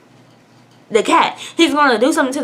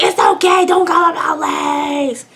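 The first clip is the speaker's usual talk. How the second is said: mock tearful reassurance; 6 semitones higher, slower than usual. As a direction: wail it high, stretching the end. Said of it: "even though he's yelling at me".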